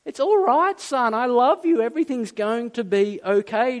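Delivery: loving, pleading reassurance; tender father. Acted. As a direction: soothe an upset son, voice lifted. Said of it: "Do you hear the tenderness".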